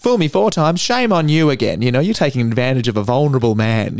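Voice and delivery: a touch of goofy stand-up delivery; silly voice. Retold or imitated. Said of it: "he's got a silly voice too".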